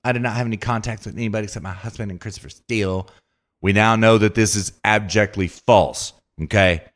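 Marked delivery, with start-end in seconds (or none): 0.0-3.1 quick, softer mock denial; mock Nellie Orr denial. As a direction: rattle it off like a lying witness. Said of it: "Nellie Orr lying to Congress about".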